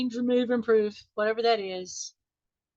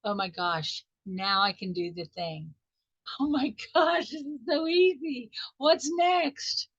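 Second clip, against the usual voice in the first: acted excitement. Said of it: "you might feel excited".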